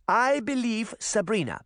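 high, insistent granny voice; crying out. A narrator's reading. Granny standing up for Sabrina, crying out. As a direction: cry out in the girl's defence. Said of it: "Granny cried".

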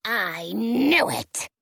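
slow, drawn-out snarl. Acted. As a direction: snarl it like a witch. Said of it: "she snarls at us".

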